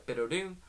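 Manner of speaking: quick spoken text-message chime; imitated phone alert. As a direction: imitate a phone's little ding, softly. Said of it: "the phone will go".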